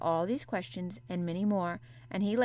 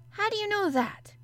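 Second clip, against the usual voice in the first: much higher, louder astonished question; jolted by what she knows; surprised demand; 14 semitones higher, 6 dB louder than usual. A narrator's reading. Boy startled that the girl knows his age, surprised. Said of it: "he demanded in a surprised voice".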